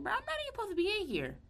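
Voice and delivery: very high, fast, exasperated; protesting she shouldn't even be there; indignant protest. Retold or imitated. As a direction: squeal it out in disbelief. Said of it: "I'm like".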